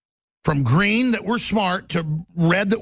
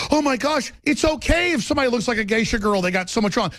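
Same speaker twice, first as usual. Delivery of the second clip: mock upset boyfriend; 4 semitones higher than usual.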